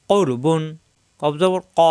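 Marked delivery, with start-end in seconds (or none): 0.1-0.6 কৌর with a thick, rounded r; heavy র. Shown as a demonstration. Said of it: "র মোটা হবে". 1.8-1.8 ক made at the tongue root, rounded vowel; back-of-tongue k. Shown as a demonstration. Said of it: "জিহ্বার গোড়া থেকে".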